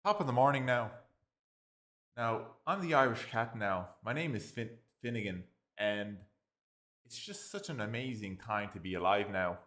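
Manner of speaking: loud, high Irish cat voice; hammed-up Irish brogue as a cheery cat; Irish accent. Irish cat character introducing himself, hammed-up Irish accent. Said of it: "I know how to do an Irish accent".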